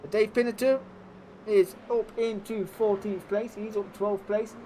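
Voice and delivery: lively live race play-by-play; motorsport commentator. Acted. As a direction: call the race as it happens.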